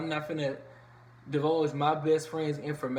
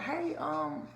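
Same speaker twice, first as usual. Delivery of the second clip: put-on higher-pitched try at a New Orleans accent; 10 semitones higher than usual. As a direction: lightly attempt a New Orleans twang. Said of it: "what's the New Orleans accent?".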